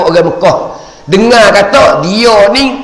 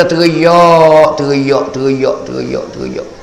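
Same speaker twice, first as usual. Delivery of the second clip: fading lament; 3 semitones lower, slower than usual. Acted. Prophet weeping, fading repetition.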